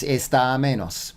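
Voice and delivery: "está menos" run together, the final a of está held slightly longer; joined and lengthened. Shown as a demonstration. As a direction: link "está" smoothly into "menos". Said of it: "slightly longer".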